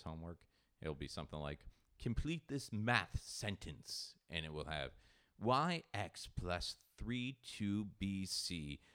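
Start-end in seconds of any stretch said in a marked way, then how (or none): 2.0-4.1 slow, higher, deliberate reading of a worksheet line; reading homework aloud. Retold or imitated. Dad reading his kid's math homework, slow and puzzled. 5.4-8.8 slow, higher, deliberate reading of a worksheet line; reading homework aloud. Retold or imitated. Dad reading his kid's math homework, slow and puzzled.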